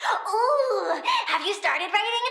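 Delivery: high gasping ooh; excited gasp. Acted. Plant girl thrilled someone started writing, gasping. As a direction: gasp with delight.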